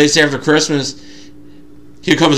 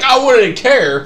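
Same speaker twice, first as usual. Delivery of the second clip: laughing; 10 semitones higher, slower than usual. Retold or imitated. Laughing while retelling the gift.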